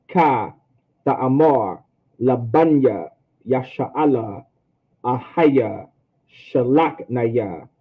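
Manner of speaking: slow practice reading, word by word; taking your time. Shown as a demonstration. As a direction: stretch each word and pause before the next. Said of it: "if you take your time".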